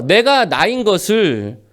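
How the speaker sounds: ordinary delivery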